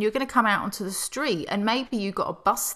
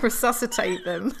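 laughing. Real, not acted. Laughing while naming the word.

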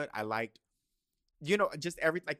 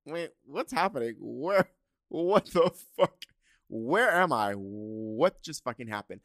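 louder, stunned shouting; shocked yelling; 2 semitones higher, 9 dB louder than usual. Retold or imitated. Shocked shout when her date brings his boyfriend along. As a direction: blurt it out in disbelief.

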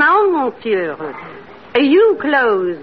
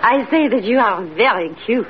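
put-on French accent; 6 semitones lower, faster than usual.

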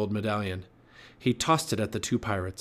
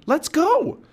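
very high, loud shout; Annie crying out; 7 dB louder than usual. A narrator's reading. Girl hurrying the boy from the storm, shouting high. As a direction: urge him off at full pitch. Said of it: "cried Annie".

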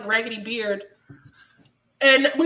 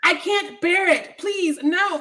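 slow, hammed-up pleading; imitating her melodramatic refusal; mock dramatic protest; 4 semitones higher, much slower than usual. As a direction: drag out the overblown plea.

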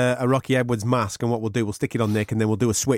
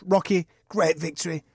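a bit higher interviewer voice; playing Dan Hardy; 6 semitones higher than usual. Host playing the cageside interviewer, raised pitch. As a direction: ask the winner who's next, pumped. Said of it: "I'll be Dan".

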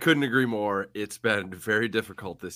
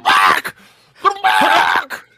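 excited shout; 5 semitones lower, 11 dB louder, much slower than usual. Real, not acted. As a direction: cheer it out. Celebratory shout.

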